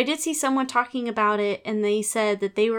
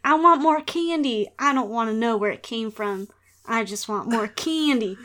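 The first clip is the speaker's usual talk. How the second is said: put-on greedy kid voice. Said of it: "The kids basically were like".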